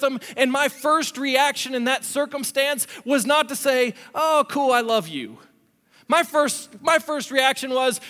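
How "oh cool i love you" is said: sarcastically sweet brush-off; mock easygoing acceptance. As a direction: feign laid-back affection. Mock reply he did not give.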